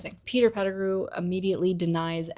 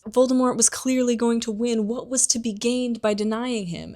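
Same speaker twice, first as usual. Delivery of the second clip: higher-pitched, mildly pleading excuse; mock-pleading, pitched up; tearful Pettigrew; 5 semitones higher than usual. Traitor makes excuses to his accusers, mock tearful pleading. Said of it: "Pettigrew bursts into tears as he's making all sorts of excuses".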